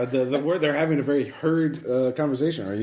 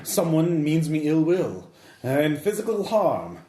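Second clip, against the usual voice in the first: posh lady voice. Acted. Lady answers the cook.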